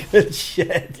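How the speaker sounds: loud burst of delighted laughter; real laughter. Real, not acted. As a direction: crack up, then talk through the laugh. Cracks up watching his rendered clip.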